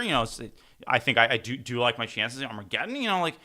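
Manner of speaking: a hint of Hikaru's broken-English rambling; Hikaru impression. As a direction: mimic the grandmaster excusing a quick draw. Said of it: "executive summary of Hikaru and what he said".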